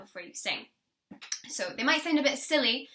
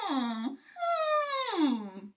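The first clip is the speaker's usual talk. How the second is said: dog whine hum; 8 semitones higher than usual. Shown as a demonstration. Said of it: "a dog whining".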